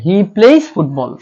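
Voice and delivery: he plays football drawn out, with the s of plays clear; slow dictation. Shown as a demonstration. Teacher dictates the corrected sentence to students, slow. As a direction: spell it out slowly for the class. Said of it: "প্লে না হয়ে হবে কি প্লেস".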